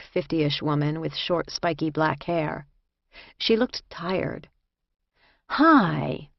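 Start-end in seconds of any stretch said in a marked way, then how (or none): 5.5-6.3 put-on Jersey-accented greeting. A narrator's reading. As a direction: say hello like a woman from Jersey. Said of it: "she said in a Jersey accent".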